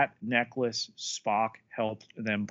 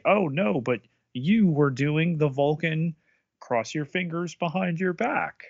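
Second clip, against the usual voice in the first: higher, mocking protesting voice; 6 semitones higher than usual. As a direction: play up a fussy objection. Acting out Vulcan's protest.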